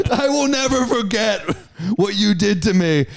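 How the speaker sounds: high-pitched, melodramatic mock yell; retold yelling. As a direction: vow revenge with overblown outrage. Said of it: "I'm yelling at them".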